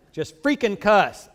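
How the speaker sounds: slow, laughing mock advice; laughing joke. Real, not acted. Pastor joking to the congregation through laughter. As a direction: toss it off with a laugh.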